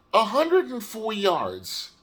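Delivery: slow flat confirmation with stress on hundred; deadpan repeat. Real, not acted. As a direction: let the disappointment settle, slowly. Repeating the stat flatly.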